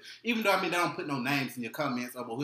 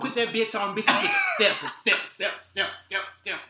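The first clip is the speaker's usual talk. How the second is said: tipsy, loud chanting; 7 semitones higher, 6 dB louder than usual. Real, not acted. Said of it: "My friend is so tipsy".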